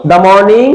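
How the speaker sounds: "The" said "dah" before morning. Shown as a demonstration. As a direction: say "The" with an ah vowel. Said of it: "এর সঠিক উচ্চারণ".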